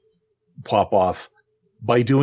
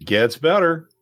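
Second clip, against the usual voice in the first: punchier, higher catchphrase; bigger catchphrase; 6 semitones higher than usual. Shown as a demonstration. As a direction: sell the catchphrase harder. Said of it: "one more time".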